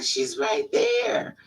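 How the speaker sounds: very high, drawn-out squeal; mock wail of disbelief; exasperated retort. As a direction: squeal it, stretching the words. Retold exasperated retort in screaming quarrel.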